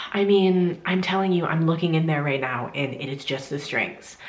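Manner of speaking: sigh, then insist with mild impatience; imitating a doctor's mild exasperation; mildly frustrated gynecologist. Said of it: "a little frustrated with me".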